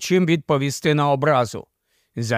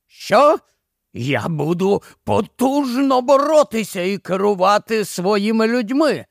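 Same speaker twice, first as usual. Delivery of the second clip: snapping back; 5 semitones higher than usual. A narrator's reading. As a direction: bite back hard at him. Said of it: "огризнувся до нього Гарріс".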